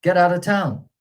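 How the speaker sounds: "Get out of town" high and loud, stress on "out"; sheriff's shout, first part high. Shown as a demonstration. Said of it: "the first part is higher".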